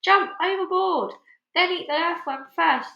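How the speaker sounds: high, loud shouted order; shouting. A narrator's reading. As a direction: bellow the command. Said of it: "shouted the centipede".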